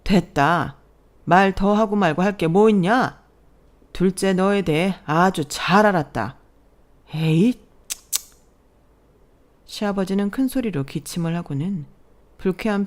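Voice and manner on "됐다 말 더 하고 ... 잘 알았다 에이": commanding rebuke. Acted. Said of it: "시아버지가 호령을 하셨어요".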